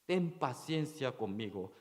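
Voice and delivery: quiet retold plea for mercy. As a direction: hush the plea, almost begging under the breath. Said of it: "está pidiendo su misericordia".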